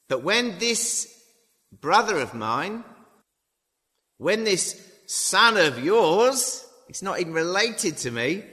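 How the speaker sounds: put-on older brother's indignant complaint, rising to a high outraged end; jealous angry son. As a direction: spit out son of yours with disgust. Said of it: "the older brother became angry".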